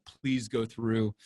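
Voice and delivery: nervous plea. Retold or imitated. Nervously watching card swipe.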